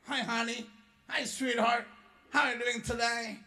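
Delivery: mock sweet greeting. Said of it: "langsung dia bilang".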